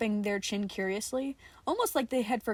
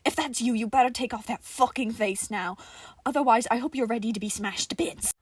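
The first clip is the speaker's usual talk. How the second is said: loud, menacing warning; angry threat; 5 dB louder than usual. Acted. Johnny threatens the toy soldier, loud and menacing. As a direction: threaten to smash it.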